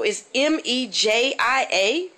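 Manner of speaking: letters M E J I A each said slowly and apart; spelled out slowly. Shown as a demonstration. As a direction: spell it out carefully.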